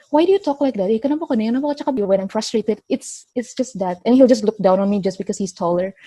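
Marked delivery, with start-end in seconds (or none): 0.1-1.9 lightly voiced, higher, sneering parody of a Sabahan accent; a hint of a bully mimicking her Sabahan Malay; mocking her accent. Retelling a coworker who mocked her accent, higher, lightly voiced mockery. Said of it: "he'll make fun of my accent".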